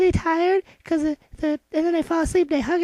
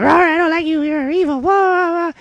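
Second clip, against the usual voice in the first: lightly voiced growly dog; barking dog; 3 dB louder than usual. Child retells the dog scolding the witch, mock barking. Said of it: "And the dog was like".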